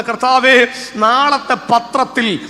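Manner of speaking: loud, slow, drawn-out plea to God; fervent prayer. Real, not acted. Preacher leads the standing congregation in prayer for their children, loud fervent plea. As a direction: pray it out at full force, stretching each phrase.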